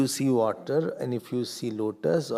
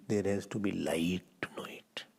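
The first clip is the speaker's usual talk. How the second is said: hushed point; 5 semitones lower, 6 dB quieter than usual. Real, not acted. Teacher whispers key point.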